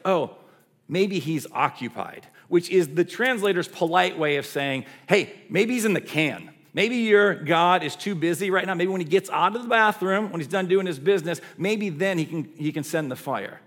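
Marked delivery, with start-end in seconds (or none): 0.0-2.3 feigned sudden realization, teasing; lightly sarcastic taunt; mocking sarcasm. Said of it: "some good taunting and mockery and a little bit of sarcasm". 5.1-13.6 raised, animated sarcastic taunting; teasing jabs, easing off at the end; straight-up mockery. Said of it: "he's just straight up mocking them".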